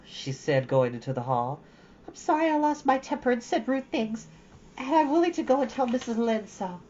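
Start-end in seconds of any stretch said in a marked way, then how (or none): 2.1-6.8 put-on higher girlish voice, putting on a brave face; a lonely girl making the best of it; young girl Anne. Anne answering Matthew through the door, bravely cheerful.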